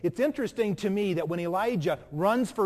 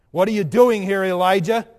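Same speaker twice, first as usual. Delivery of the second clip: the Lord asks; 10 dB louder than usual. Acted. Lord's question, loud.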